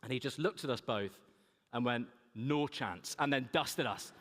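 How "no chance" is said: put-on northern accent. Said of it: "was that a northern accent".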